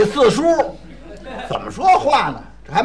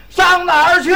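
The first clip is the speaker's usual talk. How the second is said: shouting to a deaf man; 6 semitones higher than usual. Acted. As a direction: call out so the old man hears. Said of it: "说话大点声儿".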